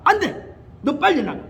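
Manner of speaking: high, loud order to leave; commanding shout. Retold or imitated. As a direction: drive the spirit out. Pastor ordering the demon out.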